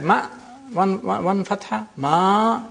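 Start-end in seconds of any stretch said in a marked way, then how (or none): 2.0-2.7 "ma" with its a drawn out long; long vowel in MA. Shown as a demonstration. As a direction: hold the vowel of "ma" for two beats. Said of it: "it equals to the, the length of period as two fathas".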